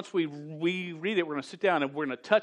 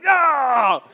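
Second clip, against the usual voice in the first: sudden high loud "No!"; shocked no; 8 semitones higher, 12 dB louder than usual. Retold or imitated. Preacher recalls his own shock at Joseph's fate. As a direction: blurt it out in disbelief.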